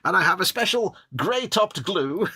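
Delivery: put-on slow, old Hollywood mid-Atlantic accent; glamorous old Hollywood star, mid-Atlantic accent. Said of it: "I shall now start talking with my mid-Atlantic accent".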